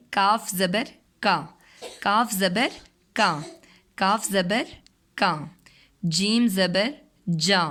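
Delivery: slow, sung-out letter drill with rising زبر; phonics drill. Shown as a demonstration. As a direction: spell each letter out for a child, then say the sound. Teacher drills letter sounds. (آہستہ آہستہ حروف کی مشق)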